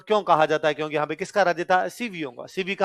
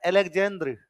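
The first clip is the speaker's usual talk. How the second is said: Russian pronunciation. Retold or imitated. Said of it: "तो कहता है".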